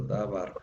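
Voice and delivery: da bar, accent landing on bar; stress on last syllable. Shown as a demonstration. Teacher shows which syllable takes the accent, stressing bar in da bar. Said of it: "bar sería la palabra que tiene acento".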